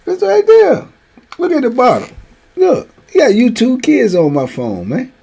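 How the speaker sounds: loud and high, calling everyone over to look; excited shouting. Retold or imitated. Grandfather shouting for everyone to look at his phone. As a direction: point and holler at the screen in disbelief.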